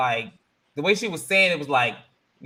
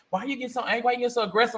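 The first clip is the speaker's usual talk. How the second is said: mock white woman; 7 semitones higher, much faster than usual. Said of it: "white woman talking to a black woman".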